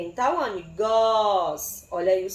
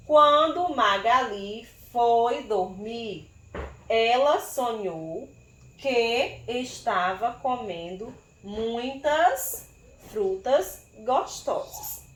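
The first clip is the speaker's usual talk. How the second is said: slow reading aloud; slower than usual. Shown as a demonstration. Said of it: "Será que terminamos o texto?".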